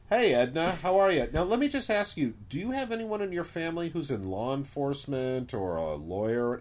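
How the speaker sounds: put-on butter up the old lady; salesman pitch. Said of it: "you gotta go in and say".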